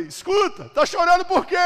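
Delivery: acted shrieky interrogation; blunt demand. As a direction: burst out with mock indignation. Acted blunt demand to crying man.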